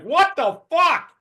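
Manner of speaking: high, loud, slow disbelieving shout; stretched-out shocked outburst; shocked yell. Retold or imitated. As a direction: yell it in total disbelief at the window. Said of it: "I was like".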